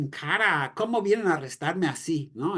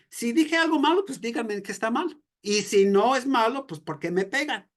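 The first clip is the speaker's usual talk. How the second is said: higher pitched, challenging demand; defiant challenge; 5 semitones higher than usual. Retold or imitated. Preacher voicing Jesus confronting the soldier about the slap, defiant. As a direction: refuse to back down, press the question. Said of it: "esta actitud de desafío en Jesús".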